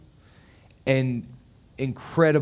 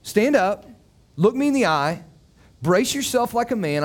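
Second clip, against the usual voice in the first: God commanding Job; 5 semitones higher than usual. Acted. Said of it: "and God says".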